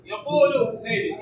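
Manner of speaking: slow "يقول", its final damma clearly voiced; final vowel sounded. Shown as a demonstration. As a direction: say "يقول" slowly with an audible u ending. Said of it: "لقد نطقنا بها".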